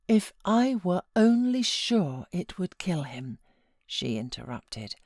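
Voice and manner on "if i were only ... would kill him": breathless whisper. A narrator's reading. Catherine whispers her wish.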